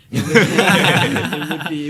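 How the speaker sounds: laughing through the words; breaking into a laugh mid-sentence. Real, not acted.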